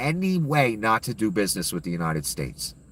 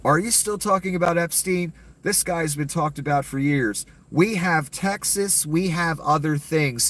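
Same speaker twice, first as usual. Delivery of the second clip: mock flipping out; 4 semitones higher than usual. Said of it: "He flipped the fuck out".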